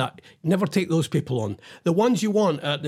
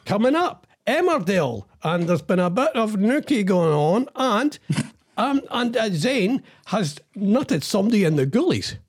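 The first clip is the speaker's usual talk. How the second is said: high, chirpy TV announcer; continuity announcer; 3 semitones higher than usual. Retold or imitated. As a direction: sell the next show cheerfully. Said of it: "friendly continuity announcers".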